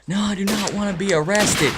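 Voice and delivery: high-pitched mock protest; imitating yelling girl. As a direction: refuse like an upset teenager. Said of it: "She starts yelling".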